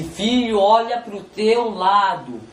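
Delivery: slow, deliberate divine command; God speaking. Retold or imitated. God directing the son's eyes beside him, slow and deliberate. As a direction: say it slowly, lightly voicing God. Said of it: "ele falou pra mim assim".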